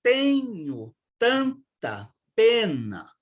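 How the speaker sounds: slow verse with the stresses marked; deliberate metric reading; scanning the rhythm. Shown as a demonstration. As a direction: lean on TE in Tenho and TAN in tanta. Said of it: "como neste verso de Fernando Pessoa".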